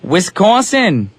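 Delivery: put-on slow, drawn-out Wisconsin accent; a light mock Wisconsin accent. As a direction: stretch it like a Midwesterner. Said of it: "that accent".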